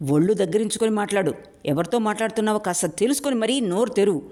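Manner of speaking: fast, fuming threat. Acted. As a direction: spit it out in fury. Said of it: "Narahari బుసలు కొట్టాడు". (బుసలు కొడుతూ వేగంగా)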